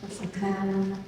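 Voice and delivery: measured poetry recital with long pauses; poem reading. Acted. Poet reading their poem to an audience, slow, deliberate recital. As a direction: read it as verse, phrase by phrase, letting each image land. Reads own poem aloud.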